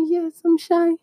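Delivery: high, small put-on voice; high-pitched bashful reply; shy admission. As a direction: own up shyly in a high-pitched voice. Acting out her own starstruck shyness.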